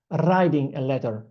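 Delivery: "writing" in an Italian accent with a rolled R. Shown as a demonstration. Teacher showing how they once said it, Italian accent. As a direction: say "writing a letter" with Italian sounds. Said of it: "in my Italian accent, I said".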